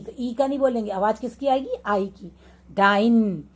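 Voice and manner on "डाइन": डाइन with a long stretched आइ; teacher's long-vowel demo of डाइन; drawn-out vowel. Shown as a demonstration. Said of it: "और खिंच के आवाज़ आएगी हमेशा".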